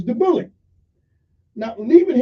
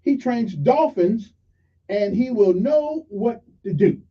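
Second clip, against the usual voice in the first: hopeful; 4 semitones higher, slower than usual. Retold or imitated. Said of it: "with hope".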